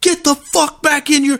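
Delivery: put-on, very high, loud screaming. Recalling a traffic stop where the cop jumped out, retelling a cop screaming. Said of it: "he's screaming".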